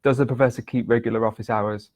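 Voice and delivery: flat robotic monotone. Shown as a demonstration. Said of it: "a robotic, monotonous tone".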